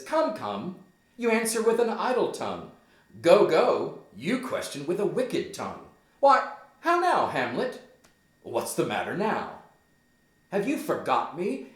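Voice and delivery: high, loud scolding mother; Gertrude pulling a mom. Acted. Mother answers Hamlet's idle tongue, high and scolding. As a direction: scold your son with pitch up. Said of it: "she's pulling a mom here".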